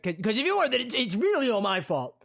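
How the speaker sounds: put-on high, nervous, stammering girl; flustered girl. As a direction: plead anxiously, voice up high. London flustered, pleading.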